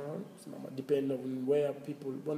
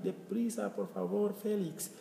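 urging a friend; 6 semitones higher than usual. Retold or imitated.

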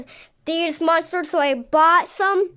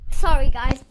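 startled; 2 semitones lower, 8 dB louder than usual. Real, not acted. Startled by spider, loud apology.

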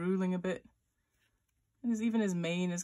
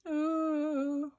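high, held cringing ooh; acted moan of embarrassment; embarrassed "ooh"; 8 semitones higher, 3 dB louder than usual. Teacher voices the unicorn with ears clamped down, embarrassed ooh. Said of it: "an embarrassed unicorn?".

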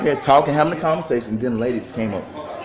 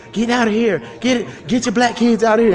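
mild mock yell, pitched up; imitated yelling; 4 semitones higher than usual. Man reporting to an officer, higher imitated yell. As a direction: mimic her screamed order without the volume. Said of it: "yelling and screaming".

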